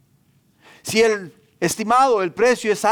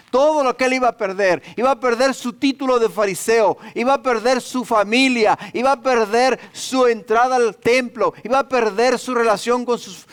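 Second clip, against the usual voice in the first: emphatic preaching; 5 semitones higher than usual. Real, not acted. Preacher piles up what Paul lost.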